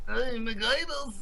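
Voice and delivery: put-on Jewish accent. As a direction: coo the name in a jokey Jewish accent. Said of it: "doing his name in a Jewish voice".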